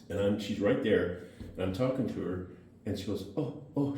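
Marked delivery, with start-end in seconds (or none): 3.4-3.9 short, high-pitched "oh" sounds, mimicked; quick mimicked ohs, pitched up; imitated startled "oh". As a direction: imitate her little involuntary ohs. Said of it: "She had this thing where she'd go".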